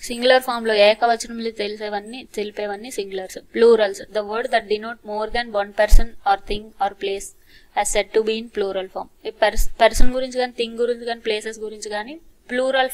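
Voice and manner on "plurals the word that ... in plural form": very slow, careful reading; slow dictation. Shown as a demonstration. Teacher slowly dictating the singular rule to students. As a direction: read the grammar rule slowly.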